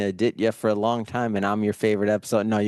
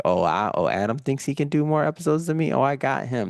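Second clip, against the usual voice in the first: higher, smug rival taunting; mock rival podcaster; 7 semitones higher than usual. Host mocks an imagined rival podcaster, higher smug voice. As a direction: play the cocky rival boasting.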